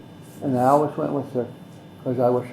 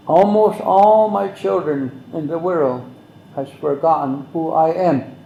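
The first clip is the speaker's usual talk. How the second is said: slow, louder, a touch of grief; sorrowful Mother Earth; 5 dB louder than usual. Retold or imitated. Speaker voicing Mother Earth's grief, slow and mild. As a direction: mourn the forgotten children, slowly.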